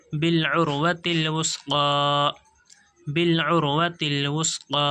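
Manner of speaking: slow, measured tajweed recitation; slow Quran recitation. Shown as a demonstration. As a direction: draw the words out slowly, chanting. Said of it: "teacher recites the joined words".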